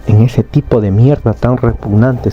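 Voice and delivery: half-hearted acted shout of disgust; angry yelling. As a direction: spit out a storyteller's restrained rant. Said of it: "seguía gritando Subaru".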